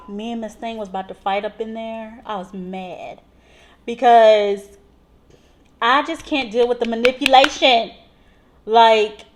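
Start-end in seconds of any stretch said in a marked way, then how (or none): 0.1-3.2 soft, muttered anger. Real, not acted. Nurse confiding her anger to viewers, quietly.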